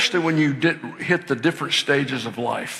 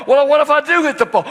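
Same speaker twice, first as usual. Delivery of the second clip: put-on anxious child; 10 semitones higher, 5 dB louder, much faster than usual. Daughter's anxious question.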